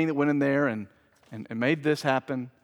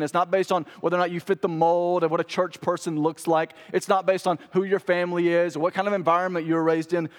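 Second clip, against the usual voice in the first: higher, driving, relentless preaching cadence; impassioned preaching; 3 semitones higher, 3 dB louder than usual. Real, not acted. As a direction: pile up each point with rising urgency. Preacher builds rapid list to climax.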